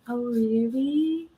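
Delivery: slow, teasing flirt; slow flirty coo. Shown as a demonstration. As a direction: draw it out to flirt. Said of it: "I can have a flirty voice too".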